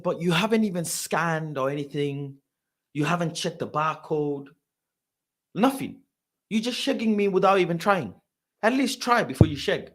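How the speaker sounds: aggrieved, rising in pitch toward the end; mildly indignant protest. Retold or imitated. Fan protests to clerk over cancelled ticket, indignant. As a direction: object with growing disbelief.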